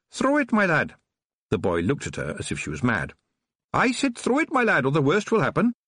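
high, menacing witch taunt. A narrator's reading. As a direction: dare him, high and cold. Witch threatens boy.

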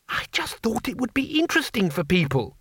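high, eager little man; chirpy high-pitched foreigner; high tourist voice. A narrator's reading. Two Flower explains.

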